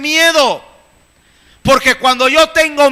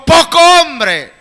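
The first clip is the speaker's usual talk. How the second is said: slow, higher mock insult from the wife; retold yell; 5 semitones higher, 4 dB louder, slower than usual. Wife insulting her husband mid-argument, mock yell. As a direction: spit out the insult slowly, half-yelled. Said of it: "me gritó y me dijo".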